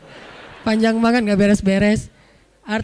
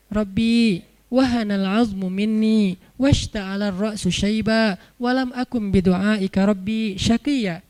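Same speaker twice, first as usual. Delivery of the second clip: slow, measured recitation; Quranic recitation; slower than usual. Acted. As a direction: recite the prayer with drawn-out syllables. Recites the prayer of Zakaria.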